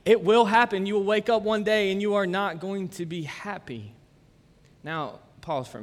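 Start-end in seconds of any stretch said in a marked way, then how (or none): 0.1-3.9 emphatic loud warning. Retold or imitated. Pastor warning a worried groom, loud and emphatic. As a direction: punch it out loud and certain.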